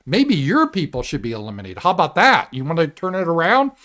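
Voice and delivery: mild defiant retort. Pretend. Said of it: "and say".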